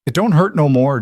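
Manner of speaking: put-on high, loud little girl voice; a small girl amazed the pain is gone; child in wonder. A narrator's reading. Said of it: "Josie said in wonder".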